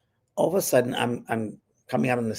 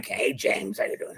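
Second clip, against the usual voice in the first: whisper; 5 dB quieter than usual. Retold or imitated. Larry greeting in a dream.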